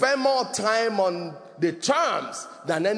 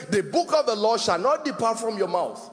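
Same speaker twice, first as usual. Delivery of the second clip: scripture read with fervour. Retold or imitated. Preacher quoting Joshua to the congregation, fervent reading. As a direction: declaim the verse like a proclamation. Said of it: "It says".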